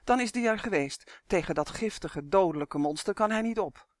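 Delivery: lightly voiced bossy elf, lively and pressing; urgent elf. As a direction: hurry him along as a lightly acted elf. Elf Uf in dialogue.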